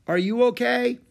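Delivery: high, loud shouted question; calling out. A narrator's reading. Girl checks on boy after the rockslide, calling out. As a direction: call across to check on someone.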